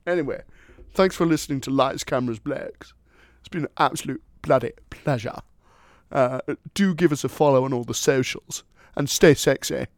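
hammed-up British accent sign-off; jokey British accent. Co-host thanking listeners at the end, jokey British accent. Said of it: "This is my real accent".

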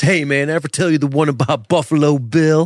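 movie-line impression. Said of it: "when he says".

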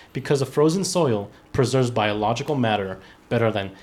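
ordinary delivery

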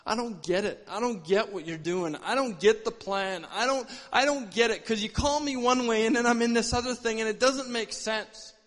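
retold desperate prayer, building slightly; crying out, retold. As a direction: plead in frustration, speeding into a run-on complaint. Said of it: "just crying out to God".

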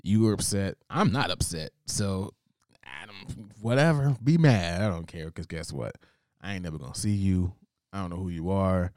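acted dismissive retort with sudden loud jabs; unbothered defiance. Talking back to an upset caller, unbothered and defiant. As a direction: brush them off, punching the dismissals. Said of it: "I don't be letting nobody bother me".

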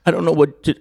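high teary mimicry of a woman; mock crying. Retelling the crying woman, high and tearful. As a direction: imitate her tearful high voice. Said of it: "Now she starts crying".

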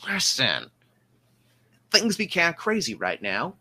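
bossy small-time officer blustering; gruff portly man. Acted. GM voices portly ship officer.

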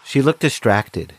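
reflective storyteller voice looking back; story narration. A narrator's reading. Henry recalls staring at Sia, calm narration.

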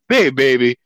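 high, drawn-out smooth come-on; suave pickup voice. Retold or imitated. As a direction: croon the name, very slow and high.

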